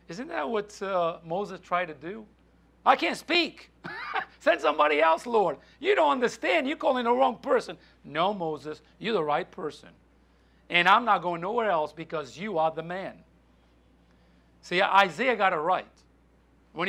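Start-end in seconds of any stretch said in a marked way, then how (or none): 2.8-7.8 higher-pitched objection; pleading protest. Acted. Moses begs the Lord to send another, protesting. 8.0-13.2 calm firm reassurance. Acted. God assures Moses he is chosen, calm and firm.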